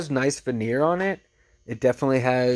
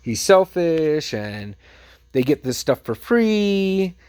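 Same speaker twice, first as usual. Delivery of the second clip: higher-pitched, drawn-out imitated complaint; mock berating; 5 semitones higher, slower than usual. Vlogger retells upset lady berating the manager, mock indignant. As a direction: stretch out each accusation like an indignant customer. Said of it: "starts kinda berating the guy".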